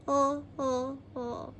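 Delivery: soft, fading ho ho ho; a mournful failed laugh; sorrowful ho ho ho. A narrator's reading. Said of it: "she added mournfully".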